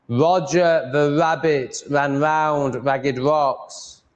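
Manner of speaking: Roger the rabbit ran round ragged rocks very slowly, mouth wide; slow open mouth. Shown as a demonstration. Repeating the tongue twister slowly for viewers. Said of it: "doing it slowly with my mouth open".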